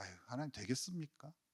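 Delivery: derisive, very quiet, low, hushed scoff. Reading Genesis with listeners, the speaker acts out the ancestor of faith answering God: acting out a scoff. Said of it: "약간 비웃는 거죠".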